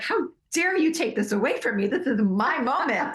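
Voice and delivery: mock indignant teen. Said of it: "I'm like".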